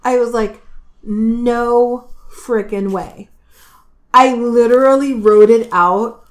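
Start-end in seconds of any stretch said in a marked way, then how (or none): 1.0-3.3 slow, drawn-out mock disbelief; astonished disbelief. Retelling her reaction to the book, astonished disbelief. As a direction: stretch it out, louder, stunned at what you read.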